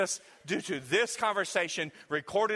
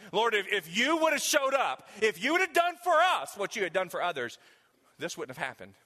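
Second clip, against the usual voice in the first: mocking complaint. Preacher mimicking the sisters blaming Jesus, whiny. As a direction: act out the sisters' sulky grievance.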